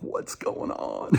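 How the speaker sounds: retold panic. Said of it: "freaking out".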